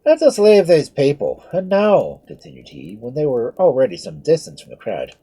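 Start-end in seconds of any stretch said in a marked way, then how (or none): 0.0-2.2 Irish priest. A narrator's reading. Priest leading her away.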